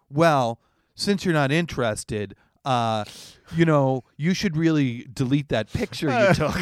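mock salesman. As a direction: sell it with a smirk. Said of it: "he's like".

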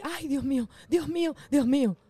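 mock moaning prayer. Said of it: "A la que dicen".

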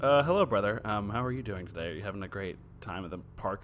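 a hint of a stiff straight dude, a bit monotone; mild mock hetero voice greeting a brother. Shown as a demonstration. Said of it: "that's my straight voice".

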